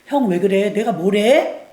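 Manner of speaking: calm brother who refuses to fight; calm and gentle. Retold or imitated. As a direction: defuse it, gently. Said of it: "헛된 데 에너지를 쏟지 않고 다윗은 지혜롭죠".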